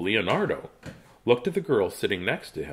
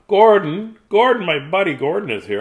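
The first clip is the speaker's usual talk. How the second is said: excited greeting; 7 semitones higher, 5 dB louder than usual. Real, not acted. Greeting friend on stream.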